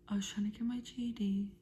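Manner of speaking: whisper. Real, not acted. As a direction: breathe it out quietly, like a secret. Retelling a story, then restarting it.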